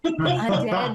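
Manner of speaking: loud, high-pitched outburst; blurted shout. Acted. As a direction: blurt it out loudly in character. Blurting telepathic reply in game.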